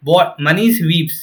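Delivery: very slow, "Bought" asked as a question word; slow test reading. Shown as a demonstration. Teacher testing the noun slowly. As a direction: read it out slowly. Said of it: "अगर मैं इसको हटा दूँ".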